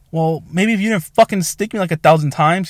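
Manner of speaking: a touch of indignant sarcasm; retold complaint. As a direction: push back at the medic, mildly exasperated.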